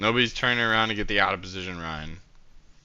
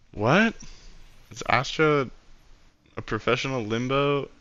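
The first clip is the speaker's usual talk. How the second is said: higher, incredulous questions; can't believe what he's hearing; amused disbelief; 4 semitones higher than usual. Real, not acted. Streamer hearing a friend limboed on national TV, higher incredulous surprise.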